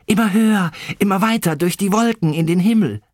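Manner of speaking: high, excited little mole voice; quick, high-pitched whoop of joy; exuberant calling out. A narrator's reading. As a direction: call out gleefully mid-swing. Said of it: "rief er ausgelassen".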